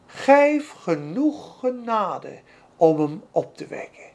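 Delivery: slow, humble whispered-down prayer, fading to near silence. Retold or imitated. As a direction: pray it small and humble before God. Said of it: "Weet je wat hij bad?".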